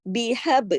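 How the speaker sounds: بیحب with the ba bounced, qalqalah. Shown as a demonstration. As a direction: echo the ب in بیحب. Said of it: "اس با کو پھر میں نے کلکلے کے ساتھ پڑھا". (بیحب میں با پر قلقلہ)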